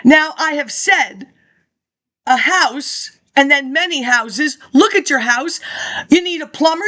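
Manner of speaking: reading out a speech, steady and measured; formal speech read. Acted. Reading an old lecture to listeners, formal speech. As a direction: deliver it like a campaign address.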